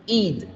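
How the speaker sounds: id said as a clear "id" syllable; id sound. Shown as a demonstration. Teacher demonstrates the id ending for students, said as a syllable. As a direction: sound out id as i plus d. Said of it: "que es el sonido de I con D".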